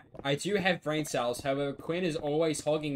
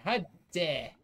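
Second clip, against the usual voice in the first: a light, raised, huffy gasp of offense; playful pretend indignation; mock outrage; 3 semitones higher than usual. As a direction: toss it off as pretend shock.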